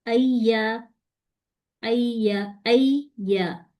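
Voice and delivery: अय्या with the first ya still and the second moving; doubled ya demo. Shown as a demonstration. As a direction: say अय्या, pass straight to the second ya. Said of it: "पहला आ गया लीन के साथ".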